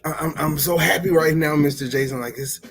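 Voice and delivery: imitating excited kid. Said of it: "he was just like".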